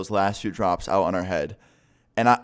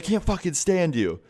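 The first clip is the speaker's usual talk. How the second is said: retold angry retort pitched way up; mock exasperated outburst; 9 semitones higher than usual. Girlfriend to boyfriend mid-fight, mock exasperation. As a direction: imitate a fed-up girlfriend, high-pitched.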